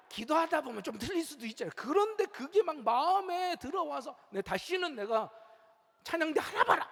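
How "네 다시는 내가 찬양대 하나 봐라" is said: mock huffy threat. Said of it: "막 이러면서".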